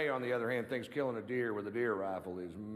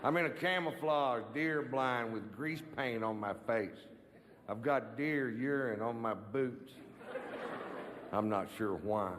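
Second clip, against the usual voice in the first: cousin Ray impression. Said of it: "my impression of my cousin Ray after the big kill".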